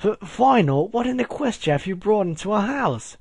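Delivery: high, stammering British alarm; British-accented shriek. A narrator's reading. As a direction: shriek it in a British accent, without much volume. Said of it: "she shrieked".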